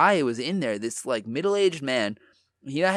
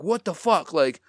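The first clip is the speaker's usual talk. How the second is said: higher-pitched mock yell at ordinary volume; retold angry yelling; 4 semitones higher than usual. Angry stranger comes at two bystanders, retold mock yell. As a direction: imitate an angry man yelling, half-strength. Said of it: "He's yelling in Japanese".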